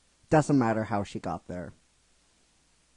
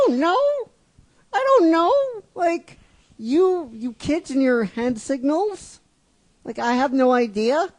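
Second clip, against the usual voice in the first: put-on much higher, louder cranky old-timer; grumpy elder; 13 semitones higher, 9 dB louder than usual. Old-timer grumbling at kids about hand signals. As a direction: huff at the kids and their signals.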